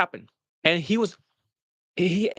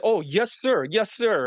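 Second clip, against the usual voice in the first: higher-pitched mock-eager reply; pitched-up eager quote; eager yes-sir; 5 semitones higher, slower than usual. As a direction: imitate an excited, obedient trainee. Acted gleeful answer in retold exchange.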